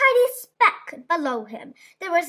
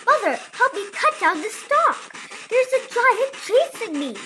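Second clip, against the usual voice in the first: pleading Jack; 7 semitones higher than usual. A narrator's reading. Jack begging mother.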